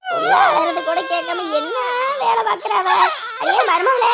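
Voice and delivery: loud complaint rising into a high shouted call; exasperated yell. Acted. Mother-in-law shouts at daughter-in-law ignoring the baby, exasperated yell. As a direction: yell over the crying baby. Yelling for her over crying baby.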